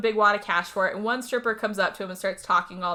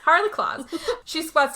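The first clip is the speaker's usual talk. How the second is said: says the name through a laugh, higher; 7 semitones higher, 3 dB louder than usual. Shown as a demonstration. Host laughing at her own nickname for the killer, chuckling. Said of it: "That's a good one".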